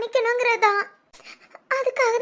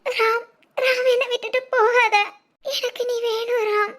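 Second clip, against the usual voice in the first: tearful pleading. Acted. Girlfriend begs him not to go.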